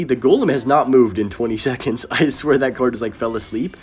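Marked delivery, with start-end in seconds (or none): none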